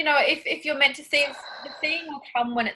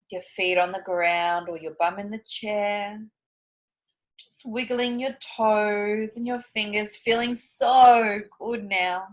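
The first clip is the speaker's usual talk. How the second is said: guided visualization. Acted. Coach guiding the group back to their bodies, soothing. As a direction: ease them gently through the visualization.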